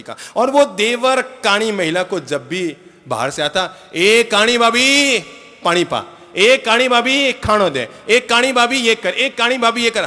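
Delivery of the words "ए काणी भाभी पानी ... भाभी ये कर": loud, high mocking call; taunting brother-in-law. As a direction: jeer at her like a rude young man. देवर भाभी को चिढ़ाता. (चिढ़ाता हुआ देवर, ऊँची आवाज़ में)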